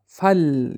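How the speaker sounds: "فل" closed on a vowelless lam; sukun on the lam. Shown as a demonstration. Teacher showing students the lighter reading, lam with sukun. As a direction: say "فل" with the L held unvowelled. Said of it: "سکون قطعی خواندنش".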